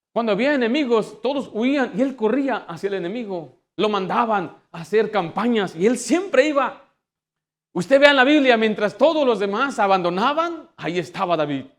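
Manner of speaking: preaching at full force. Real, not acted. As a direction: proclaim it loudly to the whole congregation. (predicación exaltada en voz alta)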